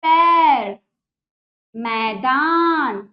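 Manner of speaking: loud, forceful drill words; loud teacher drill; said with effort. Shown as a demonstration. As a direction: push each word out with effort. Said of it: "जोर लगाना पड़ेगा".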